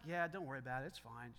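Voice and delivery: low, soft, dismissive reassurance; casual reassurance. Retold or imitated. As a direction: play a father quietly brushing off the worry. Father reassuring his upset daughter, retold.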